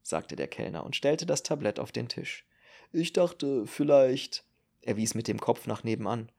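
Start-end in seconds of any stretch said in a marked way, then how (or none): 2.9-4.4 a slightly higher waiter's voice; tentative suggestion, lightly in character; lightly voiced waiter. Waiter hinting to Marill about next door, lightly voiced and tentative.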